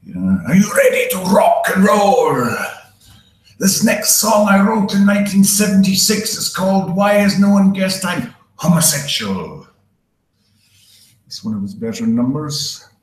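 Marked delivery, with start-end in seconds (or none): 0.5-9.7 high, loud rock frontman shout; a singer. Acted. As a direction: belt it out to a stadium crowd. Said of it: "The singer knew how to start a show".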